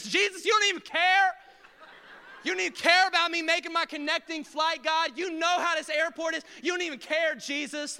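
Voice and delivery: mock angry complaint; complaining to Jesus. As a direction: blame God for the delay. Passenger blames Jesus.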